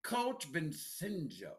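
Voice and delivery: slow, careful try at Vincenzo, vin-SIN-jo; attempted Italian pronunciation. Shown as a demonstration. Host trying to copy the coach's surname, attempted Italian pronunciation. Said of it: "Did I say it right?".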